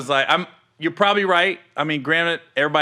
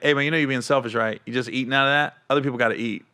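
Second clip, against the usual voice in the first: low, softened casual aside; laid-back, quiet reproach; calm, half joking; 5 semitones lower, 5 dB quieter, faster than usual. Retold or imitated. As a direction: keep it easy and low, lightly teasing. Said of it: "I'm being calm, like, almost, like, half joking".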